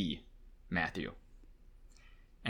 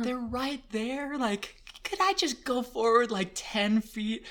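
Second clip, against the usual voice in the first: small, high, timid voice; docile pleading; 12 semitones higher than usual. Retold or imitated. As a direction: ask meekly, slow and high. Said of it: "I'm trying to be, like, docile".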